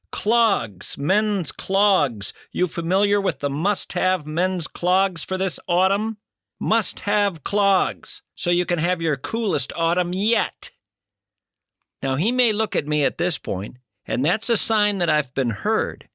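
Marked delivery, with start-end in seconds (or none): 0.1-10.7 mildly raised, pushy salesman pitch; louder voice. Retold or imitated. Asking the silent man at the bus stop, mildly louder. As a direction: push it a little louder on the stranger. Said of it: "say in a louder voice".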